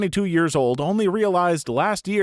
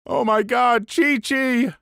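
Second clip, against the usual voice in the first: shocked realization; 7 semitones higher, slower than usual. Retold or imitated. Ross's cruel realization about dog.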